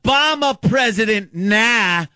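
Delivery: hammed-up heckler taunt; imitating a heckler. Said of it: "Like that?".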